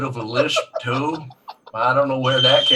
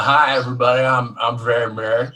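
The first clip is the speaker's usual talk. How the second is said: Mary impression; 5 semitones lower than usual. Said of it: "Do your best Mary impression".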